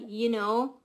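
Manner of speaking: "You know." with a Canadian lilt, know drawn up; Canadian accent. Shown as a demonstration. Describing how some Canadians sound, Canadian accent. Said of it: "the accent is kind of like".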